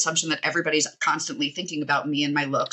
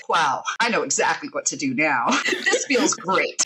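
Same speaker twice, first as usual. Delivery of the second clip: much higher, hammed-up fake delight with laughter; sarcastic cheer; 9 semitones higher than usual. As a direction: oversell the joy to mock it. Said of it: "where they're like".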